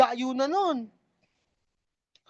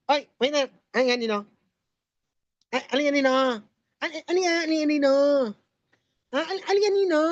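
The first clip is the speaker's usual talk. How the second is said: ngongo voice; 3 semitones higher, faster than usual. Acted. Customer calls waiter in ngongo.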